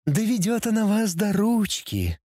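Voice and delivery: high, insinuating demonic purr; demon tempter voice. Acted. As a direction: tempt them like a she-demon. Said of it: "голосом демона-искусителя".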